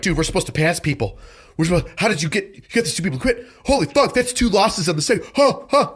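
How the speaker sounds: high, rising disbelief ending in laughter; incredulous. Retold or imitated. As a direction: voice climbing in shock, then a laugh. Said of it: "looking at me like".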